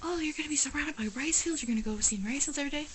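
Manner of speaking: high, fast mock of naive friends; mocking question. Vlogger mimicking people back home before her move, mocking. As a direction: parody the silly rice field question.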